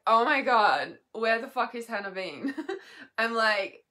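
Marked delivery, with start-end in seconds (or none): 0.1-2.5 loud, retold astonishment; amazed outburst. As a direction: burst out as if amazed by a discovery. Retells amazed reaction to podcast.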